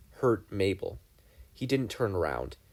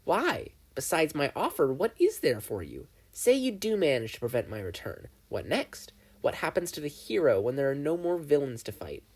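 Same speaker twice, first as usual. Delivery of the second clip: lightly voiced gleeful demon, a bit higher; Bill the demon; 4 semitones higher than usual. Bill questions the hero.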